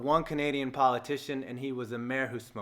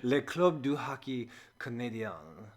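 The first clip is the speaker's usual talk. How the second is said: homemade French accent, a second try; 3 semitones lower, 5 dB quieter than usual. Shown as a demonstration. Logo reviewer retrying the Montreal team's name, French accent. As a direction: have an earnest but amateur go at a French accent. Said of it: "my best French accent".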